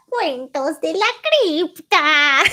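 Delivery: laughing delight at the Spanish title; excited. Real, not acted. Excited to recognize the show, laughing. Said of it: "I love Cuentos de la Cripta".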